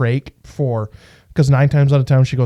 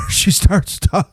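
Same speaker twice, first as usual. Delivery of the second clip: slow, broken air-leak voice; imitated failing voice, word by word; talking through a trach; 6 semitones higher, slower than usual. Shown as a demonstration. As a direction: demonstrate speech with air escaping the throat. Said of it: "So all of a sudden".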